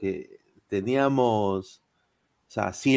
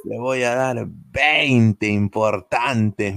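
laughing imitation; 4 dB louder, much slower than usual. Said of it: "y así me dijo".

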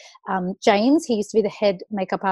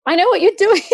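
knowing tease; 9 semitones higher, 6 dB louder, faster than usual. Retold or imitated. Catching sister's psychologist trick.

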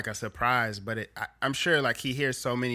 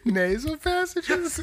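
high, slow laughing disbelief; incredulous; 6 dB louder, slower than usual. Real, not acted. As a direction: repeat it in amused disbelief.

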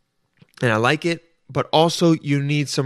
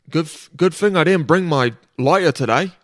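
put-on Cockney accent. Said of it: "Cockney accents".

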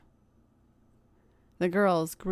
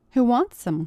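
higher, louder challenge; rough cry; 5 semitones higher, 5 dB louder than usual. A narrator's reading. Laura challenging the other girls, crying out roughly. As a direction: throw the question out roughly. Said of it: "cried Laura roughly".

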